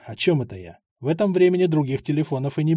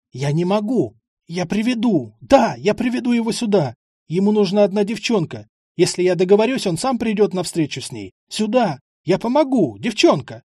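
frantic bargaining; 5 semitones higher than usual. Acted. Бандит торопливо торгуется.

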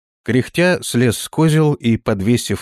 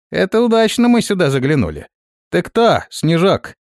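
gloating raider, pitched up; frantic shouting hostage taker; 7 semitones higher, 3 dB louder than usual. Acted. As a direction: sneer at the captive, voice raised. Raider mocks the captive elf.

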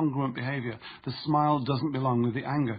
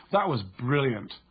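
slow, dry sarcastic "That was brilliant"; mock the team's failure with it; annoyed sarcasm; slower than usual. Shown as a demonstration. Teammate quipping after a letdown, sarcastic. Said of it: "with a tonality that communicates annoyance".

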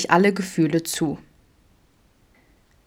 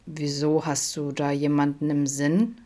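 softer, darker question; darkly; 3 dB quieter than usual. Acted. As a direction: ask it quietly, probing. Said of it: "fragte Adam dunkel". (leise, dunkel gefragt)

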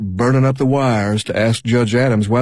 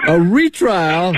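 surprised; 6 semitones higher, much slower than usual. Acted. News of retrial just heard.

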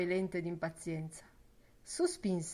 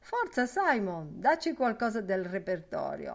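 louder, cheerful coaxing; hearty urging; 4 semitones higher, 4 dB louder than usual. Acted. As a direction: egg Simon on to sing. Ben Dollard urging Simon to sing.

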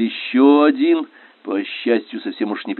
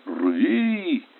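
higher-pitched command cry; shouted order; 7 semitones higher, 5 dB quieter than usual. A narrator's reading. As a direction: call out a battle command.

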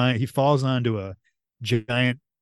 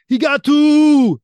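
high, drawn-out mock bellow; big hammed-up shout, last word stretched; movie-quote yell; 12 dB louder, slower than usual. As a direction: bellow it out like an action hero. Quoting the movie's ball scene.

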